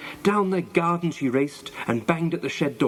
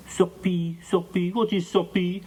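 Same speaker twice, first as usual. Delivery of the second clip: put-on higher, puzzled French boy; French accent; 6 semitones higher than usual. A narrator's reading. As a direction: ask about an unknown word in a French accent. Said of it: "asked the French boy".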